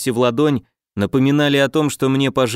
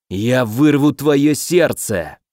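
menacing villain; much slower than usual. Acted. Villain threatens in fight.

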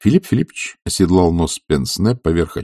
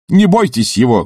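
calling out; 6 semitones higher, 4 dB louder than usual. A narrator's reading. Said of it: "крикнул вслед Барменталь".

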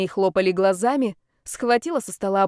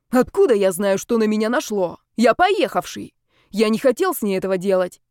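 loud, exasperated protest; agitated self-defence; 3 dB louder than usual. Acted. Zaretsky defending himself to friends, agitated protest. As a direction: protest hotly, at a loss to explain.

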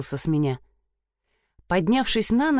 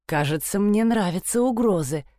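hoarse. Acted. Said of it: "хрипло сказала я".

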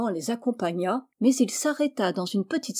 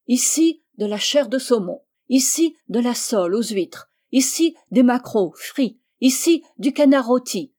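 commanding calls; 3 semitones higher, 5 dB louder than usual. Acted. Magician commanding dishes to appear.

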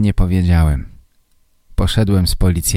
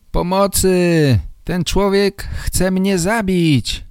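screaming for help; 11 semitones higher, slower than usual. A narrator's reading. Photographer on the ground calling for help, mock screaming. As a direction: wail for help in hammed-up panic. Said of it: "zaczął krzyczeć".

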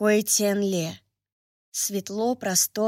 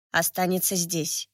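cold voice; 3 semitones lower, 4 dB quieter than usual. Acted. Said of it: "Холодный голос".

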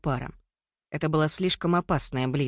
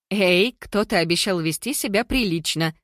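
higher, mock-scolding protest; forced amusement; 4 semitones higher, 4 dB louder than usual. A narrator's reading. Mila playfully scolds the man getting too close, forced amusement. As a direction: protest playfully, a little strained. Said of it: "натянуто рассмеялась Мила".

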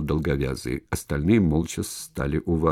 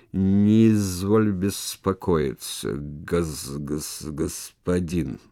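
slow stammering servant voice; stutterer; much slower than usual. Acted. Stutterer soothes the merchant, stammering slowly. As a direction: stumble over господин, repeating гос-. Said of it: "самый неподдельный заика".

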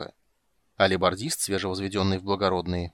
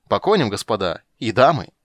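loud rallying shout; rally the riders loudly; battle cry; 2 semitones higher, 8 dB louder than usual. Acted. Dandelion calls the party to ride.

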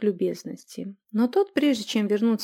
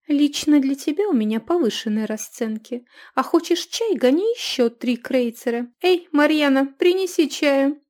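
loud, higher scolding woman; scolding innkeeper; 5 semitones higher, 6 dB louder than usual. A narrator's reading. Innkeeper raising the price on a rude customer. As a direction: bark prices at the cheapskate.

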